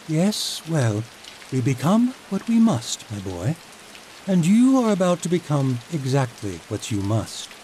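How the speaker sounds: lightly played tyrant lord; lightly voiced menacing Chancellor. Chancellor threatens the boy.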